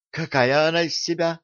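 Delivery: eager, curious question; light up with curiosity; perking up. A narrator's reading. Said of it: "оживилась Алиса".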